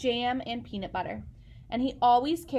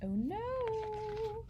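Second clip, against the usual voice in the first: mock dismay; 11 semitones higher, 7 dB quieter than usual. A narrator's reading. Reader's dismay at Lily.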